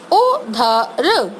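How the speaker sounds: उधर stretched sound by sound, very slowly; slow sounded-out word. Shown as a demonstration. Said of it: "उसका sound slow बोल रही हूँ". (उधर को धीरे-धीरे खींचकर बोलना)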